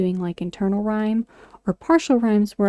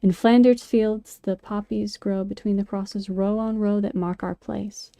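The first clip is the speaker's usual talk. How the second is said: smooth, slow, flowing recital; reading "In Flanders Fields" with natural flow; flowing poem reading. Shown as a demonstration. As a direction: carry each line into the next. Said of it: "The tendency is to read".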